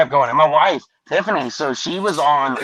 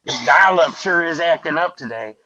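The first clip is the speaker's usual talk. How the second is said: lightly put-on hillbilly grumble; mild hillbilly twang. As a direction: play the hillbilly blaming the internet. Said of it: "I played the regular American hillbilly".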